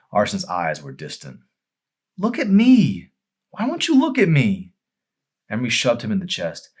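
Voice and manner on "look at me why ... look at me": much higher, louder pleading cry; a wounded young woman begging him to look; Emery's hurt demand. Acted. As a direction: demand his gaze, hurt and raw.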